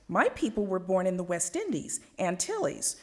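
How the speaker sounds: trying too hard to sound exotic. Retold or imitated. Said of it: "trying much too hard to sound exotic".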